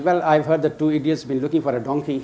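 chuckling while quoting the seller's jibe; laughing through quote. Retold or imitated. Telling the donkey seller's taunt, laughing. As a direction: let a laugh break into the seller's words.

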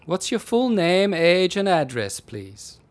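measured desk sergeant voice; slow official policeman. Acted. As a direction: read out the form slowly. Policeman taking details at desk.

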